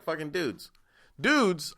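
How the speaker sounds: high, exasperated Dudes; incredulous outburst. Real, not acted. Comedian scoffing at men getting implants, high disbelief. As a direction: squeal it in disbelief.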